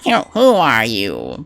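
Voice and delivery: slow stuttering nerdy question; stammering nerd. Pretend. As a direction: trip over the first word, nervously. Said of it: "I was like".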